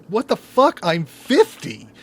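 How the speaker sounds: high, loud mock disbelief, slowing on I'm fifty; shocked at fifty. Imitating someone just hit fifty, high loud shock. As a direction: ham up the horror of turning fifty. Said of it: "it's just like".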